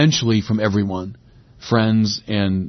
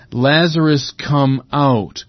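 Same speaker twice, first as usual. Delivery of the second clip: a raised, ringing call into the tomb; loud command; 3 semitones higher, slower than usual. Acted. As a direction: call him out of the grave with authority. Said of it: "In a loud voice, he says".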